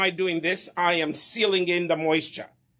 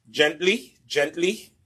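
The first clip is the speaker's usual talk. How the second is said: gentle coaxing; slower than usual. Shown as a demonstration. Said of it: "I cannot emphasize the word gently".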